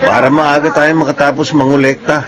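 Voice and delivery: amused, laughing scheme talk. Acted. Dario laughing with his friend about collecting early. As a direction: say it through a chuckle.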